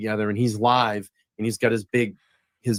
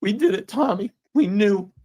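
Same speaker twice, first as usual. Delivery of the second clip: higher, choked-up retelling; moved, pitched-up recollection; emotional; 5 semitones higher than usual. Real, not acted. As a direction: voice rising with emotion as he recalls it. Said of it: "And I'm gonna get emotional".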